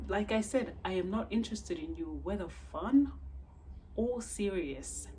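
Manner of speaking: retold firm, insistent rebuff; acted-out insistence; firm refusal. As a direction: lay it down emphatically, retelling the refusal. Acts out her firm refusal.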